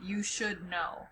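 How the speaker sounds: soft whispered aside; whispering. Real, not acted. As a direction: whisper it to the class. Teacher whispers to class.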